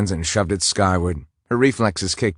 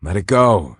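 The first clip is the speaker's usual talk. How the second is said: sharp, louder command; firm order; 6 dB louder than usual. Acted. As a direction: order her to drop it. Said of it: "he ordered".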